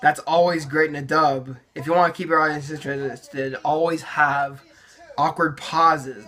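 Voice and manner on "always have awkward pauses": slow, mock-serious with a pause before awkward pauses; sarcastic advice. Shown as a demonstration. To viewers, mocking his teenage dubbing, slow sarcastic advice. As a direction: fake tip, drawn out deadpan. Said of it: "That just makes it flow so naturally".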